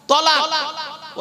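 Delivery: তলাক drawn out very slowly, tɔ-lak; তলাক, each syllable stretched; slow correct word. Shown as a demonstration. Preacher spelling out তলাক slowly for the crowd. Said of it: "কি বললাম".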